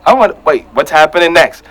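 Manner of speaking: high-pitched dawning interest; acted-out intrigued viewer; hooked and eager. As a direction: lift way up as curiosity grabs you. Acting out getting hooked on the season.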